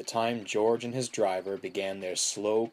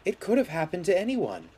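higher-pitched, kindly reassurance; soothing; 9 semitones higher, faster than usual. A narrator's reading. Mavis comforts George after the crash, soothing. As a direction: reassure without blame. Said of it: "soothed Mavis".

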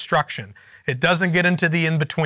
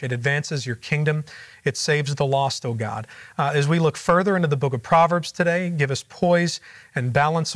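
prayer; 2 semitones lower than usual. Real, not acted. Opening prayer before Bible study.

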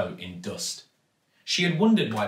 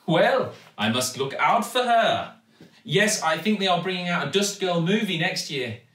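louder, higher cheerful shopkeeper; enthusiastic Raj; 7 semitones higher, 4 dB louder than usual. A narrator's reading. Raj humours the girl, brightly enthusiastic. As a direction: play along with bright enthusiasm. Raj's character voice.

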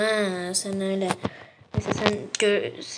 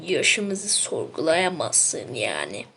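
deep slow voice; 6 semitones lower, slower than usual. Acted. Character voice continues.

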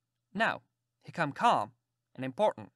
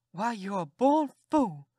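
high, slow, loud scold; scolding aunt; 5 semitones higher, 5 dB louder, slower than usual. Acted. Aunt scolding the boy, slow and loud. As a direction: call him a fool with slow contempt.

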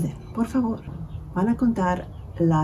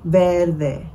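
Verde in two beats, Ver-de; syllable by syllable. Shown as a demonstration. Teacher showing children two syllables, Verde split evenly. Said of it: "clap out the syllables".

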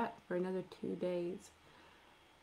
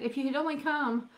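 tearful reproach; 8 semitones higher, 5 dB louder than usual. Acted. Sisters cry out to Jesus.

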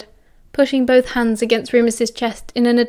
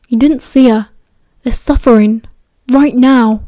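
put-on louder, pressing, upset young man; angry outburst; 7 dB louder than usual. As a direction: push back hard, raising the voice. Remus pleading angrily.

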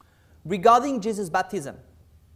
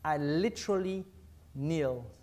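hushed confession; 5 semitones lower, 13 dB quieter than usual. Real, not acted.

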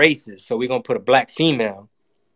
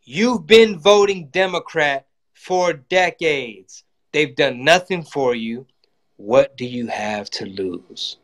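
imitating Trump; slower than usual. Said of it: "so this is what he said".

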